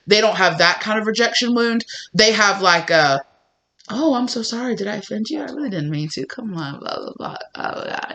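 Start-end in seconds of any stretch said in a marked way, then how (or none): 3.9-8.1 mock apology. Imitated smooth apology, fading.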